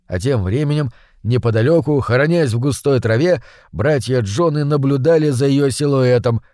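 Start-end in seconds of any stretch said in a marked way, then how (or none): none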